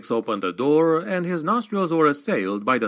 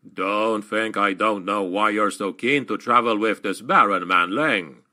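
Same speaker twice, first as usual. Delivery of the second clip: a lightly voiced dwarf, knowing and sly; mildly gruff dwarf Slayer, sly; 2 semitones lower than usual. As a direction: tease him like a cunning old dwarf. Gotrek accuses Felix, character voice.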